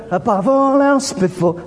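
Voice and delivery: mock bored. Shown as a demonstration. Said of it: "if you're going".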